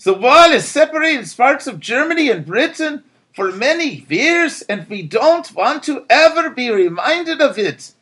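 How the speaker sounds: Absil's voice. A narrator's reading. Absil answering the German citizen firmly. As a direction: answer with conviction. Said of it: "Absil responded in his voice".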